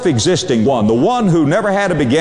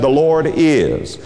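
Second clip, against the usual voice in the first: "is" stretched out and left hanging; slow down and halt on "is"; preacher's quote with a long, held "is"; stopping on IS; slower than usual. Retold or imitated. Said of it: "he stopped right there when he said".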